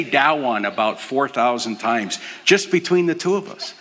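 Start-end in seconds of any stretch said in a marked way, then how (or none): 0.0-0.7 "That one" said as "dah-wun"; toddler pronunciation. Retold or imitated. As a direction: imitate a toddler's "That one", hard d and no final t. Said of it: "We say".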